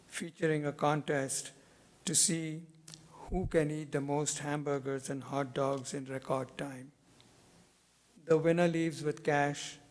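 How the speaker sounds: measured poem recital, pausing after each phrase; deliberate phrases that fall away at the close; poetry reading. Acted. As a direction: read your poem to an audience, letting each image settle. Reads own poem aloud.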